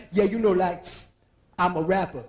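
lightly voiced rapper; laid-back rapper. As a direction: mumble it like a rapper. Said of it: "He must have been like".

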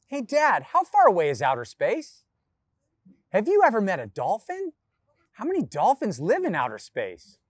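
a hint of an inquisitive child; child's eager questions. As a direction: fire off curious questions like a kid. Acting child's questions to dad.

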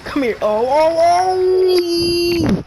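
high, urgent shouts; excited battle calls. Real, not acted. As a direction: yell orders high, rising into a cry. Excited calls during game fight.

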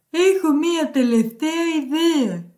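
put-on pig character voice; storybook pig. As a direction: voice the pig offering an idea. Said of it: "είπε το γουρούνι". (φωνή γουρουνιού παραμυθιού)

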